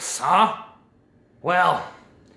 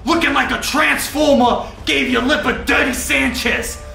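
angry shout; 2 semitones higher than usual. Acted. Coach yells insults at doctor.

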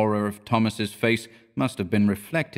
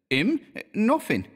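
higher Cockney lad telling a tale; Cockney bellboy; 13 semitones higher, slower than usual. A narrator's reading. Thomas tells Mister Scott about the watchman, in higher Cockney. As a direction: tell it like a young London bellboy.

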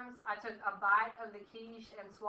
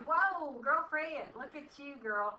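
lightly voiced sassy mirror talk, a bit higher; playful girlfriend compliment; impressed at the mirror; 4 semitones higher, slower than usual. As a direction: hype yourself up in the mirror. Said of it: "I was like".

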